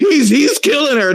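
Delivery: high squeaky fake-sounding panic, laughing; mock panicked woman. Mocking the woman in a chimp attack video, high laughing panic. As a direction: mimic a frantic caller through laughter. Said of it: "She was like".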